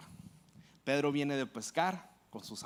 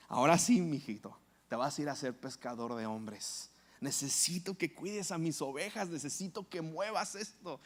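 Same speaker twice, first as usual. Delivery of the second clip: fatherly mandate; 2 semitones lower than usual. Acted. Jesus gives gentle new mandate.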